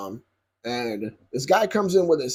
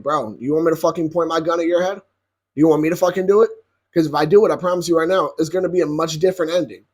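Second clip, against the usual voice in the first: louder, fast retold threat; a menacing retold warning; 3 dB louder, faster than usual. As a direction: confront the careless shooter. Threatening the unsafe shooter.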